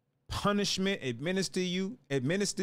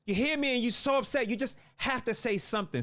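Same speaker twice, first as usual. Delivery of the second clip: usual speaking voice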